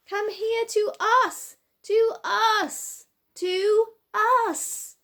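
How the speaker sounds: high, loud despairing call; a boy calling a deaf friend back to the ladder, in despair; desperate shout. A narrator's reading. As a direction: shout again and again, desperate to be heard. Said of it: "shouted Joe in despair".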